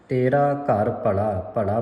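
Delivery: ਭਲਾ with a single light ਲ; lightly articulated ਭਲਾ; soft pronunciation. Shown as a demonstration. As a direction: keep ਭਲਾ undoubled, not ਭੱਲਾ. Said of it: "ਪੋਲਾ ਪੜ੍ਹਨਾ ਹੈ".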